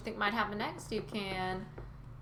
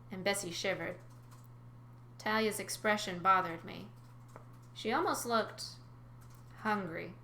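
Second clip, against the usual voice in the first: story narration. A narrator's reading. Narrator describes calming the frightened sea cow, story narration. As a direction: lively, clear read-aloud.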